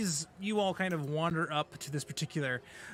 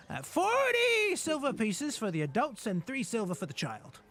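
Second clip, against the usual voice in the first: put-on elderly goblin; slower than usual. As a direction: play the doddering old goblin clerk. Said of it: "He goes".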